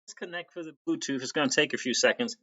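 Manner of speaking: tinny Bluetooth mic sound; talking through a tin can; metallic voice filter. Real, not acted. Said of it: "Sounds like you're in a tin can".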